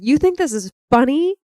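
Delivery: retelling Luke snapping at Han, mock rage; mock angry Luke. Luke confronting Han over the dead, in a mock angry voice. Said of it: "Luke's rage here".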